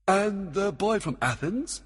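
high, eager questioning king; commanding Oberon. A narrator's reading. Oberon questions Puck about the boy, keenly. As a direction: raise the pitch for a keen question.

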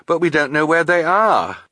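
high, upset objection; anxious girl's high voice; distressed protest. A narrator's reading. Violet answers brother in distress.

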